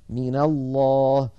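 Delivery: "من الله" recited slowly as "mina-llah"; fatha on nun. Shown as a demonstration. Teacher showing the result, "من الله" linked with fatha. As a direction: give the nun of من an a-vowel, then lengthen الله. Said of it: "لأن الفتح أخف الحركات فصارت".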